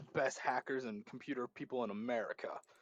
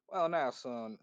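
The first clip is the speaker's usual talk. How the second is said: Southern accent; slower than usual. Shown as a demonstration. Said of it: "that kinda accent".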